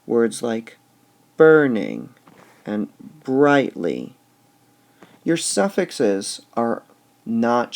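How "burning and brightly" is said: "burning" loud on BURN, "brightly" slow on BRIGHT; stress on the stem. Shown as a demonstration. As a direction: drop the suffixes, hit the stems. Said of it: "Notice what happens".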